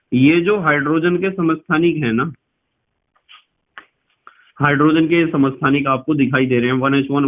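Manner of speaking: normal talking voice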